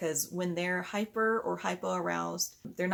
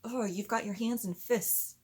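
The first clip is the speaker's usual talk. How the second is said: gentle questioning; 5 semitones higher than usual. Shown as a demonstration.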